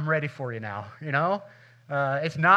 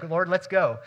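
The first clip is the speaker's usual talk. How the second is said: louder, raring-to-go mock cheer; eager night owl; 5 dB louder than usual. Pastor acts his wide-awake late-night self, eager. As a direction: pump it up like it's eleven at night. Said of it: "I'm ready to go".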